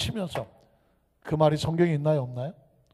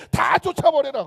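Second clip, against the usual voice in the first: loud, high order; 쫓아내는 명령; 7 semitones higher, 7 dB louder than usual. Retold or imitated. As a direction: command them all out. 예수님이 사람들을 내보내는 명령. (크고 높은 목소리로 명령하듯)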